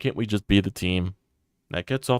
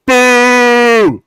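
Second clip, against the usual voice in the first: long, loud, much higher boo from the stands; 17 dB louder than usual. Pretend. Fed-up fan booing his underachieving team, loud drawn-out boo. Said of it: "That's what I'd be fucking doing out there".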